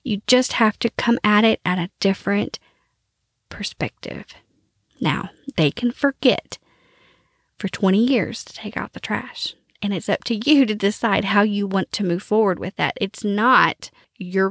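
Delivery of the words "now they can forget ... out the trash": a hushed, confiding whisper; half-joking whisper to the viewer; whispered aside. Real, not acted. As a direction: lean in and whisper it like a secret. Conspiratorial aside about forgetful partners.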